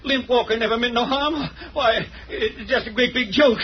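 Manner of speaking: nervous laugh. Acted. Henchman laughs off danger.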